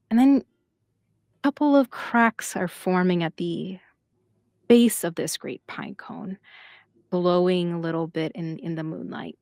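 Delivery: suspenseful narration, paused between phrases, fading at the end; game master's scene setting. A narrator's reading. Game master describing cracks in the pine cone, scene-setting narration. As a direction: reveal it piece by piece, then let it fade.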